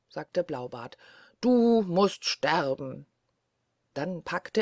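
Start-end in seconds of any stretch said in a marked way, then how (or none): 1.4-3.1 slow, grim death sentence. Acted. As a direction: pronounce her doom slowly. Blaubart threatens death. (Blaubart verkündet langsam und finster das Todesurteil)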